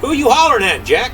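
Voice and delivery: high-pitched, baffled question; high, insistent query; demanding giant. Acted.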